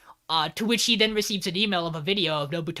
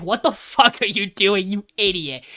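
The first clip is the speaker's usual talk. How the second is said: mildly angry, raised retelling; mock outburst, a bit louder; Kyoichi mad; 5 dB louder than usual. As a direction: imitate an exasperated telling-off. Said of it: "Kyoichi gets really mad".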